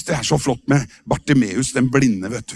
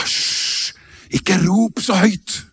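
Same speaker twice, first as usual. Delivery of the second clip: mock scolding shush; much slower than usual. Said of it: "De hysja på han og sa".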